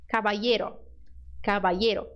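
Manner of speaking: caballero with a gliding I sound. Shown as a demonstration. Teacher listing the LL options, first the I sound. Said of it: "som de I".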